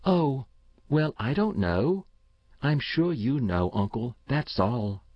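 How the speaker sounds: put-on a keen boy talking up his system; eager young boy. Boy Paul voiced by narrator.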